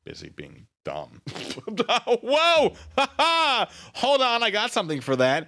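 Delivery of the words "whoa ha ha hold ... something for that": laughing, high and loud. Real, not acted. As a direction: burst out cackling with delight. Laughing loudly at a chat jab.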